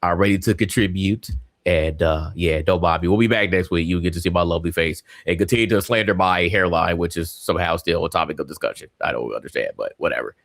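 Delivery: talking through a blocked nose after surgery; stuffy, congested nose voice; stopped-up nose. Real, not acted. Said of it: "if I sound crazy, it's because I do sound crazy".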